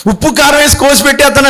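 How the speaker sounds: high, fast mock threat; a retold quarrel threat, high and rapid. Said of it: "అంటున్నాను".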